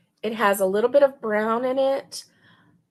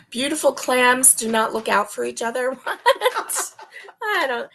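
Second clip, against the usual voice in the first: laughing; 3 semitones higher than usual. Real, not acted. Reading a funny yarn name.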